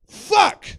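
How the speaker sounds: high, loud burst of alarm; exasperated shout. Retold or imitated. Friends realizing it's the wrong floor, exasperated shout. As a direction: shout the curse in dismay.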